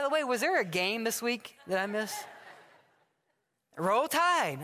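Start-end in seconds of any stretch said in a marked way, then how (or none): 3.8-4.6 a bright, hearty "Roll Tide"; cheery fan greeting. Retold or imitated. Bus rider greets the pastor, hearty fan cheer. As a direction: greet him like a proud fan.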